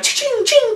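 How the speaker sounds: high-pitched mimicked wand zaps; spell zap noises. Describing a wizard duel to viewers, high zapping noises. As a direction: make the ching of clashing spells up high.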